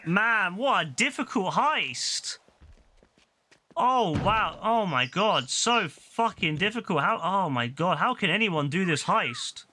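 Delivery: hammed-up moaning over how hard it is; mock despair. Streamer sarcastically bemoaning a difficult heist, mock despair.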